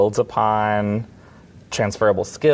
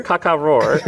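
higher, playful bird and roar call; laughing animal call; 6 semitones higher, 4 dB louder than usual. Pretend. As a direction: caw caw roar through a laugh. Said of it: "There you go".

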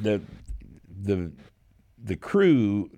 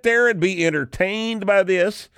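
exasperated rant; 13 semitones higher, 4 dB louder than usual. Real, not acted. Ranting at critics.

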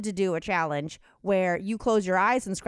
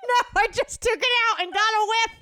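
laughing; 7 semitones higher than usual. Real, not acted. Gags and laughs at smell.

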